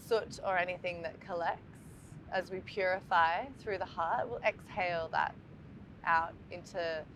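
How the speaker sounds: calm meditation guide, long pauses between phrases; guided meditation. Acted. Teacher guiding listeners to breathe into the heart, calm meditation voice. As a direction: lead listeners gently through the breath, leaving space after each phrase.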